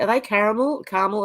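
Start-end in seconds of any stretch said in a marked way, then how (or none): 0.2-0.8 "caramel" with all three syllables sounded. Shown as a demonstration. Streamer checking a word with viewers, full three-syllable "caramel". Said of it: "Is that how you say". 0.8-1.2 "Caramel" shortened to CAR-mel; two-syllable caramel. Shown as a demonstration. Streamer trying the other pronunciation, "Caramel" as CAR-mel. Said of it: "Is that how you say".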